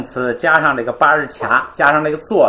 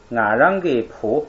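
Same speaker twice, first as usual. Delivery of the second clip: slow model reading; slower than usual. Shown as a demonstration. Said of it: "咱们来读一读啊".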